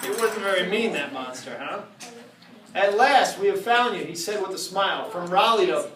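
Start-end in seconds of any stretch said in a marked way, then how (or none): 2.7-5.9 storybook reading. Acted. Reading a Halloween rhyme aloud to the audience, spooky storytelling. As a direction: read it to the crowd like a spooky storybook. Reads Halloween book to crowd.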